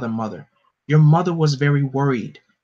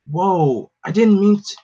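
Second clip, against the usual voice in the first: high, louder blurted apology; startled apology; 4 semitones higher, 4 dB louder than usual. Acted. A boy apologising after his heat beam hits Superman, startled and loud. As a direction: gasp it out in shock.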